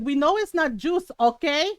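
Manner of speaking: lightly mimicked Filipino mom, pointed; mom calling out. Mom challenging the tita about her thermos, calling out. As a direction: imitate a knowing, accusing mother. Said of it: "my mom called her out".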